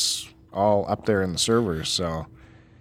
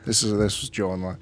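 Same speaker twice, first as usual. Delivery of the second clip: golf announcer voice; 4 dB quieter than usual. Retold or imitated. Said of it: "The golf announcer voice?".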